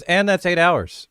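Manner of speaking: slow, high mock announcer voice; hammed-up DM pronouncement. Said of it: "and Matthias cuts us off and says".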